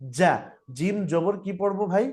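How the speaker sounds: usual speaking voice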